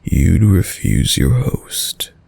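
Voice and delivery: a teasing whisper of feigned offence; mock-hurt whisper. Mock offence at refused drink.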